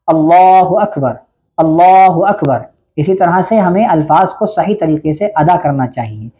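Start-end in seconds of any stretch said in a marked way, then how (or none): 0.1-2.6 अल्लाहु अकबर slow, the two words joined, doubled l in अल्लाहु; joined pronunciation. Shown as a demonstration. Teacher showing worshippers how to join the takbir, slow and careful. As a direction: say अल्लाहु अकबर as one smooth joined phrase. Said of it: "इन दोनों को मिलाकर पढ़ना है".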